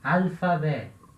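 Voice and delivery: "alfabeto" said slowly, F clearly heard; slow demo word. Shown as a demonstration. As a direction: model "alfabeto" slowly for the class. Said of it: "vai ter som de F".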